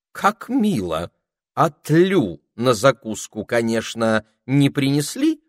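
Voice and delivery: high, loud scolding spider voice; grumpy spider. A narrator's reading. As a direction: greet them with fussy reproach. Spider fussing over food.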